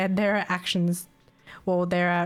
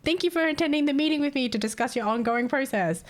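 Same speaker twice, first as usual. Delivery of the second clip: laughing while reading; 7 semitones higher than usual. Real, not acted. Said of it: "the check-in email was like".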